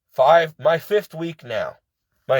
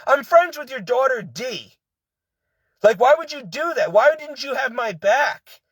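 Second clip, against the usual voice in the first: higher, hurt and indignant, voice pitched up throughout; upset pleading; 5 semitones higher than usual. Real, not acted. Fired worker confronts the vice president who ignored her, upset and pleading. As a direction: plead with a betrayer who never had your back.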